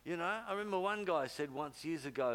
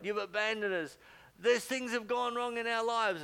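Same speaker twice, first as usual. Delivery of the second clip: louder, higher accusing cry; emphatic complaint; 7 semitones higher, 6 dB louder than usual. Acted. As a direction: throw the blame at God. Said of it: "they put all of that into it".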